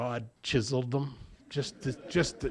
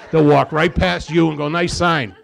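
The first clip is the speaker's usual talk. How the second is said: laughing; 3 semitones higher, 11 dB louder than usual. Retold or imitated. Mocking AA visitors ignoring sign.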